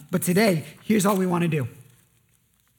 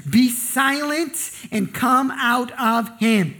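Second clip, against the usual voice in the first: slow commanding; 3 semitones higher, much slower than usual. Acted. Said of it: "he just says".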